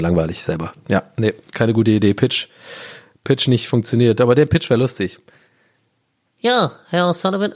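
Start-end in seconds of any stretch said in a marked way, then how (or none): 6.4-7.5 higher, squeaky-pitched casting director; a casting director voiced much too high. Casting director greets the applicant, voice pitched high. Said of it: "warum hat er so eine hohe Stimme nochmal?".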